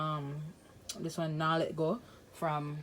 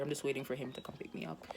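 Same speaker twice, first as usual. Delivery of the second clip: whisper; 2 semitones lower, 7 dB quieter, faster than usual. Real, not acted. Whispered aside, fast.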